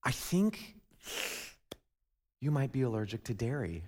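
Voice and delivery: a hint of the tactful wife raising an issue; gently imitating his wife. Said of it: "leads Cassie to saying".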